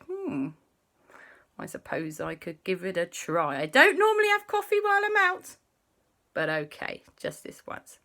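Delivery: lightly voiced Papa, pondering; a hint of a put-on Papa, musing. Papa accepting a cup of coffee, lightly voiced.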